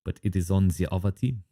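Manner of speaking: put-on light French accent, lightly done; a hint of a French accent; slightly French accent. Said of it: "I felt the need to do a slightly French accent".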